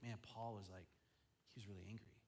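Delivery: low, soft confiding tone; hushed gossip. Acted. Friends telling a student what happened at the meeting, hushed. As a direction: pass it on under your breath.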